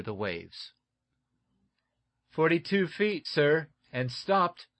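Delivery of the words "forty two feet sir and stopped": shouted up. A narrator's reading. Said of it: "shouted up Eph Somers".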